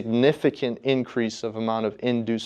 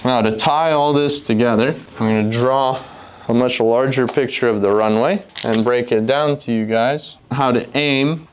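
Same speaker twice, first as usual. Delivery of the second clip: louder, upbeat sales pitch; infomercial voice; 4 dB louder than usual. Real, not acted. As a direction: sell it like a TV ad host. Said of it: "I sound like an infomercial".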